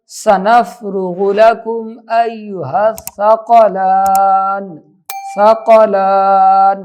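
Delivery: slow tajweed, final syllables held long; Quran recitation. Shown as a demonstration. Teacher reciting then repeating the word, slow recitation. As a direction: draw out the last vowel on one note.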